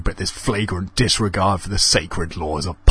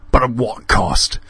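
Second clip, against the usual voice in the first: rising to a loud scream on the repeat; 5 dB louder, slower than usual. A narrator's reading. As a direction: yell the accusation. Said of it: "screamed Alan".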